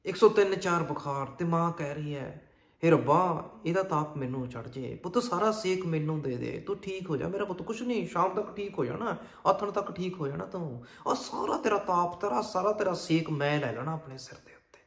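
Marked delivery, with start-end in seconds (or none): 2.8-14.8 higher-pitched motherly pleading; lightly voiced anxious, soothing mother. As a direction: plead to take the child's fever. Mother prays over feverish son.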